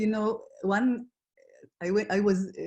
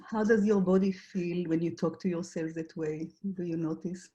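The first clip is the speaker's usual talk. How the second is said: guided reflection. Acted. Facilitator asks the group to notice their struggles, guided reflection. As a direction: guide listeners inward, leaving room between questions.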